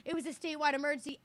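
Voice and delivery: quick, brushing-off clerk imitation; mildly mocking the clerk's rushed excuse; imitating the clerk. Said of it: "And she goes".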